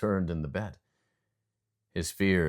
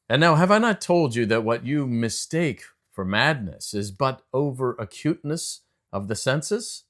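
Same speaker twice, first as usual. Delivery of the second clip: insistent; 5 semitones higher, 5 dB louder than usual. A narrator's reading. Narrator insists he is sane.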